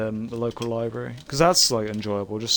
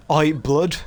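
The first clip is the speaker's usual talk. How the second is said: mock British lad accent; 3 semitones higher than usual. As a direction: play a British lad off to the pub. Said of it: "Just British people things".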